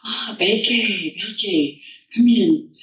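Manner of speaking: sweet Toad welcome. Acted. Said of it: "Toad invites her in and says".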